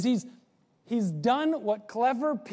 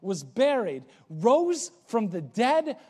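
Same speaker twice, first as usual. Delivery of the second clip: measured, building sermon cadence; preaching creed. Acted. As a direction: lay out each article of faith with weight.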